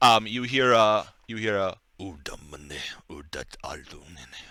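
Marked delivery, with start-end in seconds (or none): 2.0-4.3 very quiet, murmured, deep, hushed creature voice. Game master voices words spoken by a large figure, in a deep voice. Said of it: "like this deep voice coming from the other figure".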